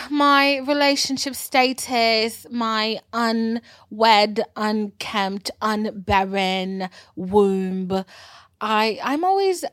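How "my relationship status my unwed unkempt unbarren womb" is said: mock dramatic. Real, not acted. Dramatic self-mocking list.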